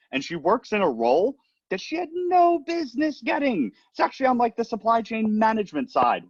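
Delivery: high, excited bragging; excited sister. Retold or imitated. Sister bragging about the rival's undeserved job, high and excited. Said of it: "She's like".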